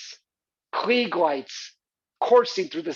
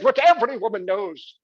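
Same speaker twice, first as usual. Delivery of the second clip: stage monologue; 3 semitones higher than usual. Acted. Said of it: "this incredible monologue where she said".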